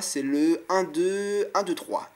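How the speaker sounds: slow, deliberate count, un deux, un deux trois; counted out slowly. Shown as a demonstration. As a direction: spell out the rhythm un deux, un deux trois. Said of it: "mais cette fois". (compter lentement un deux, un deux trois)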